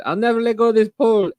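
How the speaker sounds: squeaky high-pitched imitation; shrill mock voice; high mock quote. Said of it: "this lady said".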